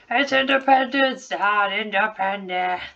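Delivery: mock angry yell; angry pen yelling. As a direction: yell the correction like a cranky pen. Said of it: "an angry pen yelling at an alien".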